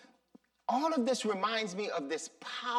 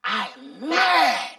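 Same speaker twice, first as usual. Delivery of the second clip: mad again; 10 dB louder, slower than usual. Retold or imitated. Echoing the prayer.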